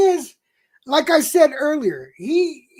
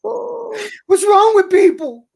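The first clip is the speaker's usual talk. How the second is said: Stossel with loose dentures; 5 semitones lower than usual. Pretend. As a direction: lisp like his teeth are loose. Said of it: "let me see if I can act this out".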